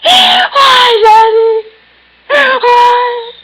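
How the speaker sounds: sobbing, high and loud; crying. Acted. Patient breaks down in therapy, sobbing for Daddy. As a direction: wail it out through tears.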